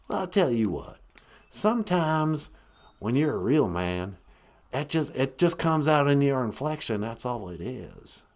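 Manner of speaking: lightly put-on slow Texas drawl; folksy Texan explaining with unhurried drawl. Caller explains real men's inflection, mild Texas drawl. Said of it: "that drawl".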